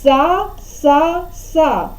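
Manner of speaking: "Са, са, са" as evenly separated beats; reading out syllables. Shown as a demonstration. Teacher giving the game's syllable, "Са, са, са" one by one. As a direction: repeat "Са, са, са" with small gaps. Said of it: "читати с-, склади, починати".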